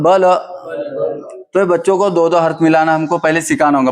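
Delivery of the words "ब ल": ब ल said with both vowels short; short, unstretched ब ल; correct short vowels. Shown as a demonstration. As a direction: model ब ल briskly, no stretching. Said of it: "बोलो बच्चों".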